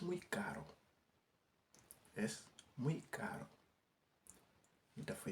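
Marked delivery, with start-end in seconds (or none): 2.1-3.5 slow it down so students can copy; slow careful repeat. Shown as a demonstration. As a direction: say Es muy caro slowly, with muy drawn out. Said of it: "teacher repeats the phrase slower". (waxaat ko ndànk ndànk)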